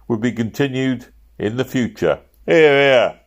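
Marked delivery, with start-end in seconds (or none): 2.4-3.2 crowd approval. A narrator's reading. Workmen approving the speech.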